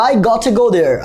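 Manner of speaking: "gotta" with an aspirated T, "got-tha"; "I gotta go there" with a hard British T. Shown as a demonstration. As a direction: puff the T in "gotta", British style. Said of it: "টিকে ঠ উচ্চারণ করে".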